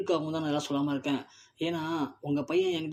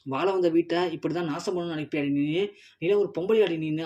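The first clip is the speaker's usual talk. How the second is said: furious scolding. Acted. Grandmother berates Eswari, furious. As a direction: shame her with contempt. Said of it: "பலன் வர விடுறாங்க".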